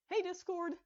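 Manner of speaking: high greeting called across the room; calling out. A narrator's reading. Starlight calling to the arriving couple. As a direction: call out to friends arriving. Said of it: "stood to call to them".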